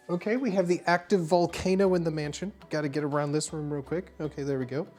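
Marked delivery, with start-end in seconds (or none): none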